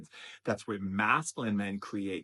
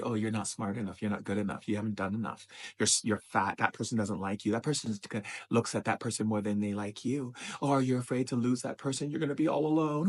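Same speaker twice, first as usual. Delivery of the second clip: voice of darkness. Acted. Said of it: "darkness tells you".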